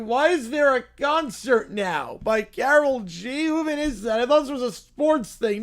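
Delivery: put-on bratty little kid whining about football; pouty spoiled child, mock outrage; whiny kid voice. Streamer reading a silly kids' skit, as a whiny child.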